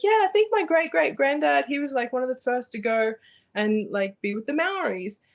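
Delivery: eager retold reply. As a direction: chirp it like keen small talk. Retells own chatty reply to lady.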